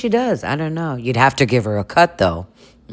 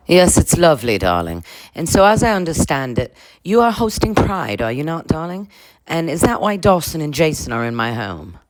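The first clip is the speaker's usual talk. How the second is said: grand lady voice; 2 semitones higher than usual. Acted. Lisa questioning Venus about hosting Pride, regal lady. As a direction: interrogate politely from the throne.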